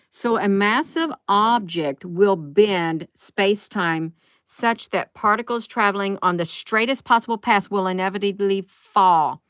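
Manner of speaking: deliberate, emphatic read-out; measured reading, landing hard on the last word; reading aloud. Real, not acted. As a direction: read out a science explanation with weight. Reads an article aloud.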